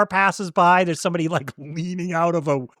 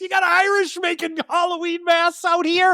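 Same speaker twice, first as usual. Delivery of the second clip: imitating the character; 9 semitones higher than usual. Telling a friend about the movie's Irish masks, lightly mimicking the character. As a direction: lightly voice the factory guy marveling. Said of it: "He says".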